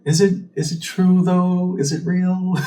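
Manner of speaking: high, slow, unsure voice; doubtful client. Retold or imitated. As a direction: imitate someone second-guessing it. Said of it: "minimization on your part of saying".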